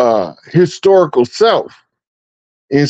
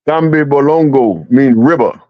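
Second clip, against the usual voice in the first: African accent. Shown as a demonstration. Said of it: "say it again in that accent".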